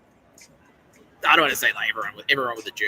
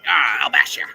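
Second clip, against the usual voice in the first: mock threat; 10 dB louder than usual. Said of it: "so it's like".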